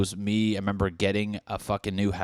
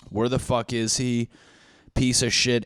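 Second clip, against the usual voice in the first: mildly angry, pushed a little; mock anger; 3 semitones higher, 3 dB louder than usual. Friends angry someone went missing, mild mock anger. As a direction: put on a touch of irritated outrage. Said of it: "anger, anger, anger. Peaks".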